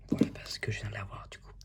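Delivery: quick whispered aside, no voice. Real, not acted. YouTuber whispering a repeated aside to viewers. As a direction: breathe it out fast like a secret.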